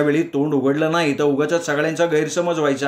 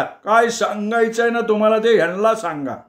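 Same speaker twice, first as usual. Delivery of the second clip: higher calling-out voice; shout; 6 semitones higher than usual. Acted. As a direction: call across the crowd. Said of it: "तो पुन्हा ओरडला". (ओरडून सांगणे)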